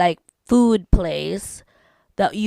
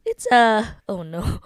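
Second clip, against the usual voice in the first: voice cracking. Real, not acted. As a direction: voice breaks mid-word. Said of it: "my voice broke".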